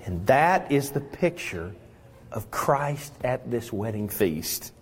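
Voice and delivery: ordinary delivery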